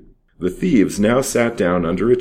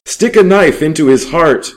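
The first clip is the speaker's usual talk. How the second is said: very high, loud bloodthirsty yell; savage shout; 10 semitones higher, 8 dB louder than usual. A narrator's reading. Thief screaming for the boy's death, loud and savage. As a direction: scream for the knife. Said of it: "cried Jules".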